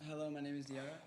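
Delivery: soft put-on British accent. Shown as a demonstration. Band member gives Diarra a sentence, soft British accent. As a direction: model a British accent quietly. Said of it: "give her a sentence in a British accent".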